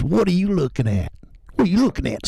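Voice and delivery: high snarling redneck; mock tough redneck glare; redneck persona. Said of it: "And he just says".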